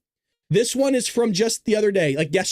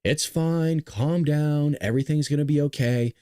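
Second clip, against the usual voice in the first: calm reassurance; 5 semitones lower than usual. Retold or imitated. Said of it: "I do this exact same thing he does".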